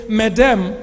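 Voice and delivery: slow, weighty official demand; firm, measured order to pay; stern demand. Acted. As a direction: press each word as a stern tax collector. Tax collector demands payment in retold story.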